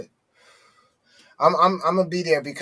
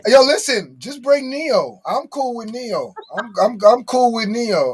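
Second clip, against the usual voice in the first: high, hyped-up insistence; excited; 5 semitones higher than usual. Real, not acted. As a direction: pitch it up, eager and urgent. Excited insistent pitch to bring Neo.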